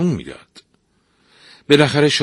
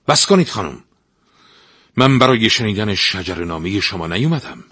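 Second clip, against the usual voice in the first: a touch of impatient anger, louder; the prince interrupts the bragging stepmother, irritated; 3 semitones higher, 4 dB louder than usual. Acted. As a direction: cut her off, curt and annoyed. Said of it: "با عصبیت".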